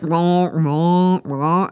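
loud, strange croaky meows; imitating a weird, loud cat cry; weird cat yowl. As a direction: yowl it oddly. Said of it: "It's, like, weird".

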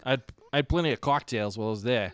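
put-on Boston accent. Husband back from the pod to his wife, Boston accent. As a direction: confess it in mock Boston. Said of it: "wife up in the Boston accent".

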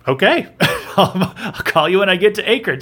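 laughing through the words; chuckling as he plays along; amused laugh. Real, not acted. Laughing at the confusion.

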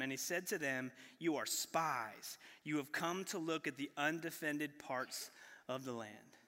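reading the Bible passage aloud, measured and clear; steady pulpit reading voice; scripture reading. Acted. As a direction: read the verses like a sermon text. Reads Genesis 42 aloud.

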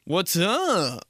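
drawn-out, trailing what's up; ellipsis voice. Shown as a demonstration. Showing how a dotted text sounds, trailing off. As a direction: let it hang open suggestively. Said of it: "That's what it sounds like".

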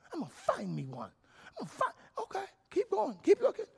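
squeaky high mock voice, half crying; mock the desperate searcher in a whiny high voice; mock high whiny seeker. Preacher mocking a woman hunting a man, whiny high voice.

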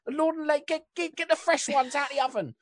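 high, loud Cockney yelling to the back. Acted. Baker woman yells to husband in back, loud Cockney. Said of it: "she starts yelling".

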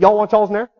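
quick, run-together Southern "y'all's"; imitating a folksy Southern dialect; imitated Southern dialect. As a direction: slur it together like a Florida Southerner. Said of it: "Different dialect".

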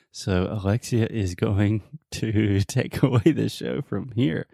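laughing despite chest pain; stifled laugh, slow and strained; laughing through pain. Real, not acted. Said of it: "trying not to laugh because it hurts".

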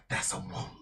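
hushed, cold and matter-of-fact; soft sinister calm; quiet menacing villain. Acted. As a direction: say it low, like he's examining you. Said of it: "he just goes".

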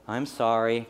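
low, softened, drawn-out sorry; nicer apology. Acted. Child finally apologising properly to a parent, nicer. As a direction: say sorry nicely, like a corrected child. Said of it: "Say it nicer".

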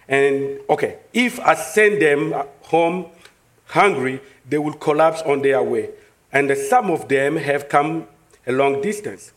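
measured, low-pitched Bible reading; scripture reading. A narrator's reading. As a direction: read the passage aloud steadily, with pauses between phrases. Reads scripture aloud.

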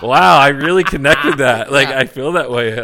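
delighted loud laughing; laughing loudly. Real, not acted. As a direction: laugh it out big. Laughing reaction to the story.

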